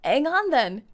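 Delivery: loud "Ang on then", falling; dropped H. Shown as a demonstration. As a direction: drop the H in "Hang" and lean on "on". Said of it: "British people just skip the first letter".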